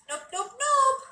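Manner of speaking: high, loud nope to stop someone climbing up; firm loud no. Real, not acted. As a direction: call it out sharply, high and loud. Stopping pet climbing up.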